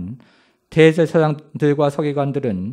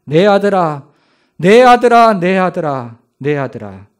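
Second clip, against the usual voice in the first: father weeping over his son's suffering; loud wailing; 6 dB louder than usual. Acted. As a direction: wail for the son, peak on the third call, then fade. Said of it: "크게 울부짖기를 시작합니다".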